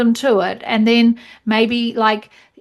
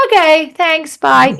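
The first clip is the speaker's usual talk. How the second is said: abrupt brush-off; 6 semitones higher, 5 dB louder, slower than usual. Shown as a demonstration. Mocking abrupt end of class.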